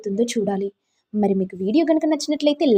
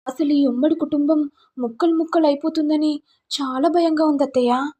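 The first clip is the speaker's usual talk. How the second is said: higher-pitched show of sympathy; concerned; 5 semitones higher than usual. Acted. Daughter-in-law consoling her crying aunt, higher and concerned. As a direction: fuss over her with raised, worried pitch.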